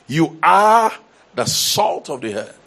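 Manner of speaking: "You are" rung out high and loud, then the rest settles down; emphatic proclamation. Retold or imitated. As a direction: boom out "You are" like a preacher, then ease off. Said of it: "And he said".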